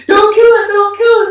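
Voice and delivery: high, loud panicked pleading; retold screaming. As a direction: scream it out like reliving the scare. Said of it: "naked, screaming".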